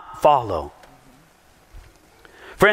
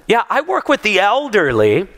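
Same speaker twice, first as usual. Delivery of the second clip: lady's reply; 3 semitones higher than usual. Retold or imitated. Retelling the woman explaining her work, chirpy and laughing. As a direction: answer brightly as the lady. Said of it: "She says".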